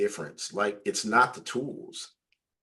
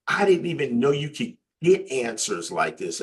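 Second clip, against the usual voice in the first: higher-pitched impressed friend; imitated amazement; 5 semitones higher, 4 dB louder than usual. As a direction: mimic a friend blown away, a bit louder. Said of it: "it totally just blew his out of water".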